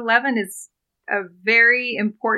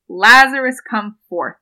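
retold loud cry; 3 semitones higher, 9 dB louder, slower than usual. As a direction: call out the name, then settle for the command. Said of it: "cries out with a loud voice".

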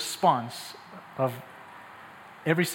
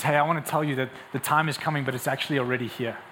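lower, measured, earnest assurance; gentle Jesus; 4 semitones lower, 4 dB quieter than usual. Acted. Preacher as Jesus telling the woman the time is here, gently. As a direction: bring it down to an intimate, sincere promise. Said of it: "He says".

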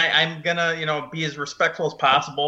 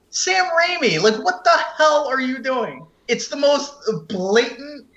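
exasperated outburst; 7 semitones higher than usual. Real, not acted. Calling out Sam Raimi during the rant, high exasperated outburst. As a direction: voice jumps high calling out the director. Ranting at the director.

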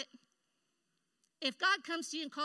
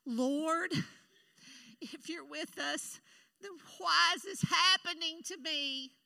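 whining; 4 semitones higher, slower than usual. Retold or imitated. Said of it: "He was whining instead of praying".

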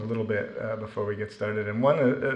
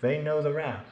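lifted, higher, gently encouraging voice; reassuring teacher; 5 semitones higher than usual. Retold or imitated. Teacher Mila reassures a lost freshman, higher and gentle. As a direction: reassure a lost student in a raised, kindly tone. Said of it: "And she said".

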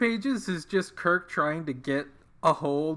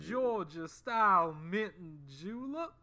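Foghorn Leghorn; 7 semitones higher, 3 dB quieter than usual. Retold or imitated. Host imitating Foghorn Leghorn offering a mint julep. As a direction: ham up the blustery cartoon Southern rooster. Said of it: "one hundred percent Foghorn Leghorn".

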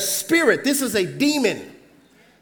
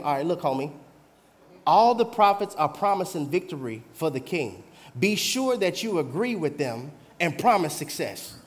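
casual hushed messenger; 6 semitones lower, 6 dB quieter than usual. Acted. Messenger quietly coaching Micaiah to go along. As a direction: lower and softer, confiding.

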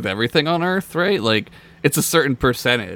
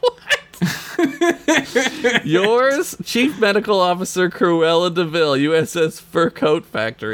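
Cruella villain; 5 semitones higher than usual. Acted. Cruella letter read in voice.

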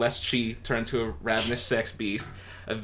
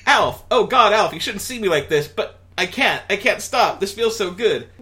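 Lynn in ecstasy; 9 semitones higher, 7 dB louder than usual. Acted. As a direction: overdo the breathless teen. Lynn voiced, aroused.

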